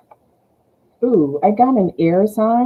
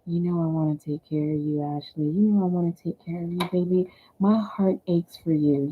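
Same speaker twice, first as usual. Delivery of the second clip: smooth talking; 4 dB quieter, faster than usual. Retold or imitated. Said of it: "all smooth talking".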